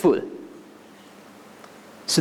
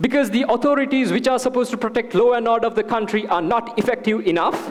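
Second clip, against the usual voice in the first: fast, know-it-all Texas-free witty answer; witty retort; faster than usual. Retold or imitated. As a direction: rattle it off fast like a clever student. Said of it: "me trying to be a bit witty".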